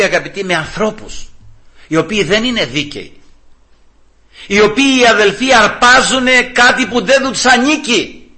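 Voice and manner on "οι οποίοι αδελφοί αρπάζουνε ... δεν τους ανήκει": high, slow emphatic denunciation; stretched, raised pulpit delivery; impassioned preaching. Real, not acted. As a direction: press the charge on the congregation. Preacher denounces theft.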